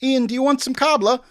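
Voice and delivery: a shrieking, overdone caterer; over-the-top crew voice. Pretend. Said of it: "Sorry, I went too far with that".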